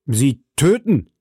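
slow, horrified "Sie töten!"; horrified cry. A narrator's reading. Felton cries out in horror at the prisoner. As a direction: recoil in shock. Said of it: "rief Felton voll Schrecken".

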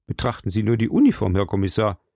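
quick, mildly pressing appeal; insistent urging. Acted. Landlord directs the commissioner to the uniform, quick and insistent. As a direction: point out the proof briskly. Suspect urges commissioner to look.

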